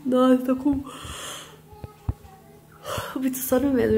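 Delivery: drowsy, dragging slow speech; sleepy, nodding off. Real, not acted. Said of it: "Tô morrendo de sono".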